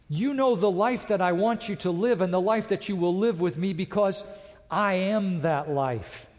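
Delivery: preacher voicing Jesus' emphatic claim, building in force; powerful blast. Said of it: "this powerful blast from Jesus Christ".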